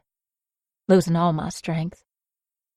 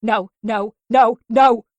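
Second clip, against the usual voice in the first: desperate no; 4 semitones higher, 6 dB louder, slower than usual. Acted. Mia struggling.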